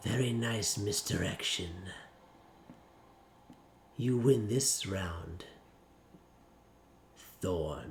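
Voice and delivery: very quiet, very low, soft, hushed confiding whisper. A game master voices Mr. Leverty leaning close to Thorn: Mr. Leverty whispering. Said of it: "Leverty just whispers".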